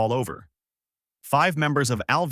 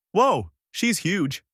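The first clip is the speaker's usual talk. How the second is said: drawn-out, higher-pitched wow; amazed exclamation; 9 semitones higher, much slower than usual. A narrator's reading. Goku seeing the huge pirate Alvida, amazed. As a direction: let it out slowly, voice jumping up in amazement.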